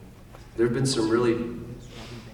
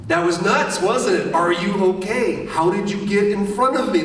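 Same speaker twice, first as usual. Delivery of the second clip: much higher and louder, breathless concern after a narrow escape; excited, worried; 10 semitones higher, 7 dB louder than usual. Retold or imitated. Actor to partner after an escape, higher, louder, urgent concern. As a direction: rush the words out, shaken and caring. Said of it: "I was like".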